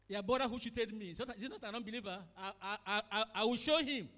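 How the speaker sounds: a brother snapping back in a quarrel; angry retort. Acted. Brother shouting back angrily.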